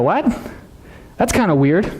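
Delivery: mock-puzzled crowd, rising on the question; baffled reaction. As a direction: act out mild bewilderment. Crowd baffled by Jesus's words.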